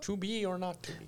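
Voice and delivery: grand Shakespearean recitation; thespian actor. Acted. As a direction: declaim like a stage actor. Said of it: "trained thespian actor".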